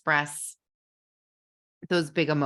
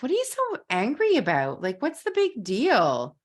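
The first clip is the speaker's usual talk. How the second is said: dismissive spouse; 6 semitones higher than usual. Pretend. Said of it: "they said to you".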